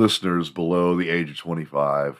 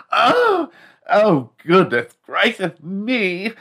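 very high, drawn-out campy squeal; hammed-up camp stereotype; flamboyant gay man; 13 semitones higher, 5 dB louder, much slower than usual. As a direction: gush it high and lispy, stretched out. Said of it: "There's gotta be a gay man out there".

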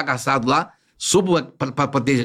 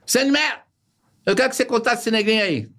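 higher-pitched imitation of the boss lady; dona Olga; 6 semitones higher than usual. Imitating dona Olga ordering Vicente, higher pitch.

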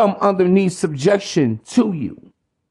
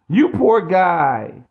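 slow, drawn-out mock sympathy; a hint of a mocking soothing voice; mock pity; much slower than usual. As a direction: pity him sarcastically, slowly. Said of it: "You want a pat on your back".

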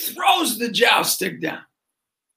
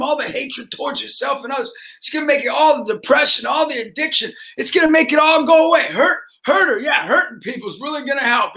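mock goading; 5 semitones higher than usual. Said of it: "And I go".

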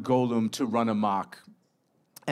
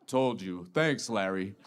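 a hint of a giant saying I told you so; smug Golem; 2 semitones lower, 3 dB quieter than usual. Golem smugly answers.

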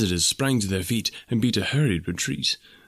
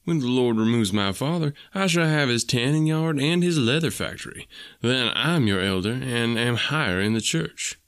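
rising, eager boast; heated boasting; 3 semitones higher than usual. Acted. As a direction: push the claim, voice climbing. Stangerson boasting back, higher.

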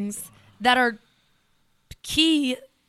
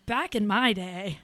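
put-on old lady voice; 3 dB quieter, slower than usual. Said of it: "soundbite of, of an old lady saying".

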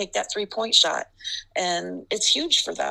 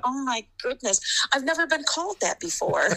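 embarrassed inner voice; 6 semitones higher than usual. Retold or imitated. Embarrassed thought after nickname.

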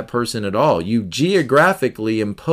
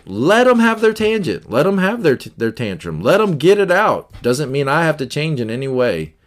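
normal talking voice

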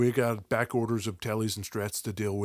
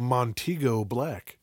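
radio voice; slower than usual. Pretend. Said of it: "say these in a radio voice".

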